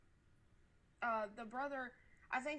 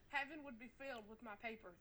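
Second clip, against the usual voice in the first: laughing; 7 dB quieter, faster than usual. Real, not acted. Joking about her own sins.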